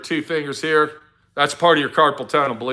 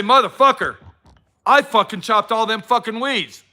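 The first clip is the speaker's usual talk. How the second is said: mock proud worker; 4 semitones higher than usual. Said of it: "You're gonna say".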